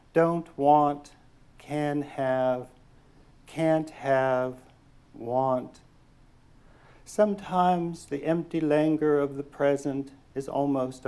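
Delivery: measured, deliberate poem reading; poetry reading. Acted. Poet reading her poem to an audience, measured and deliberate. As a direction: let each image land with pauses.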